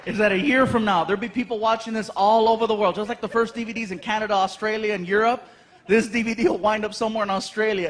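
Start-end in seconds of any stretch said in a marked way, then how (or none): none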